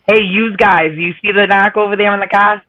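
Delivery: put-on broad Boston accent. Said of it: "the Boston accent".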